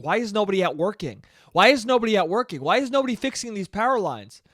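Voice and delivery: mildly indignant retold griping; angry complaint. Driver seeing fallen power lines, angry complaint. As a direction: replay an irritated complaint. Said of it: "I was getting angry".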